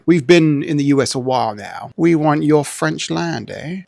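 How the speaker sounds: light mock Canadian accent; a hint of Canadian accent. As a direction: slip into a Canadian accent with a questioning "eh". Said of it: "I don't know why they sound Canadian".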